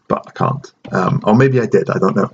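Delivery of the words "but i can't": sheepish aside. Real, not acted. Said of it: "I should be able to pronounce".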